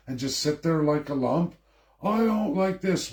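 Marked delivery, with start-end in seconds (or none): 2.0-3.1 mocking whiner. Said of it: "whine and cry".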